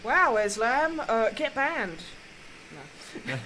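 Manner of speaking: loud frustrated outburst; tantrum. Real, not acted. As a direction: rant loudly at the game. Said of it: "so I had a bit of a tantrum".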